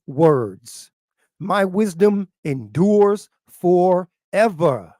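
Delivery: very slow, stretched-out proclamation; weighty preacher's reading, pausing between words; scripture declamation. Acted. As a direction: draw out each word of the holy text.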